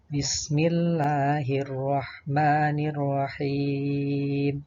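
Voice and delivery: slow, sustained recitation with long held vowels; Qur'an recitation. Shown as a demonstration. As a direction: recite it slowly as a model for pupils. Contoh bacaan ayat. (tilawah pelan dengan bacaan panjang)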